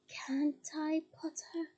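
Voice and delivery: a hint of a cold, menacing villain; high cold voice. Voldemort appearing, speaking coldly to Harry. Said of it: "said a high, cold voice".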